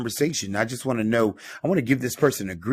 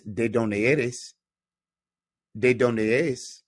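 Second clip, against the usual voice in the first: slow model; much slower than usual. Shown as a demonstration. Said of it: "teacher slow model".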